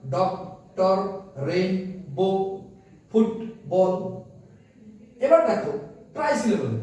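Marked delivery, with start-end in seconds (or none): 0.1-3.9 each of "ডক্টর, রেইনবো, ফুটবল" in two separate beats; slowly halve "ডক্টর, রেইনবো, ফুটবল" syllable by syllable; split into syllables. Shown as a demonstration. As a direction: pause mid-word in "ডক্টর", "রেইনবো" and "ফুটবল". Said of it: "দুইটি মাত্র syllable থাকবে".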